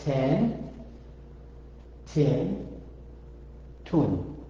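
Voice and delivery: "ten, tin, tun" one by one with gaps; syllable demonstration. Shown as a demonstration. Teacher shows the vowels on T, each syllable set apart. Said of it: "So the Kesher thing is".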